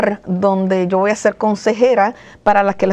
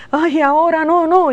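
mock reluctance; 7 semitones higher, 3 dB louder than usual. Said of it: "llegar a".

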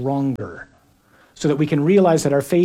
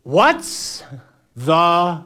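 yelling back; much slower than usual. Acted. Jesus answering the disciples over a storm, yelling back. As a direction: yell it back slowly, word by word. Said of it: "yelling back, something like this".

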